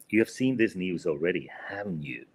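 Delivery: "haven't you" falling at the end; falling tune on tag. Shown as a demonstration. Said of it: "you notice that we did, uh, just falling intonation".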